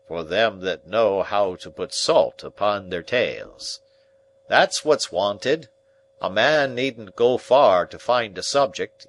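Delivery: pompous uncle. Acted. Pompous uncle lecturing the dinner guests, loud and slow. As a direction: boom out pompous table wisdom. Pumblechook holds forth at dinner.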